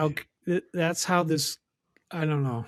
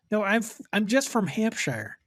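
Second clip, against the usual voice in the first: imitating; 6 semitones higher than usual. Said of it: "could you imagine having to explain".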